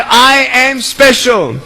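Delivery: slow, deliberate "I am special"; slow model line. Shown as a demonstration. Speaker models the chant for kids, slow and deliberate. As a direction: say it slowly for them to copy. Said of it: "I want you to say".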